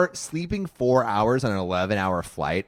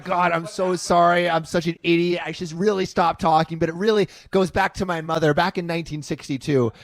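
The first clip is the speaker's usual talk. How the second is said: higher, hammed-up apologetic gush; mock self-pitying rant; 5 semitones higher than usual. Mocking the seatmate's apology spiral, higher and gushing. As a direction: lightly send up a guy spiralling into apology. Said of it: "He's like".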